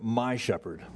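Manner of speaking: "my" leaned on before "shepherd"; stress on MY. Shown as a demonstration. Preacher to congregation on the psalm's first words, stressing "my". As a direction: put the emphasis on "my". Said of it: "I, I, I emphasize it".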